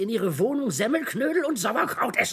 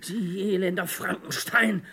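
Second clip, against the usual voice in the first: ordinary talk, nothing marked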